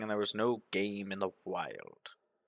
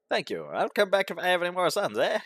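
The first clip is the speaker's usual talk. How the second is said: grinning; 7 semitones higher, faster than usual. Acted. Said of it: "he says, grinning".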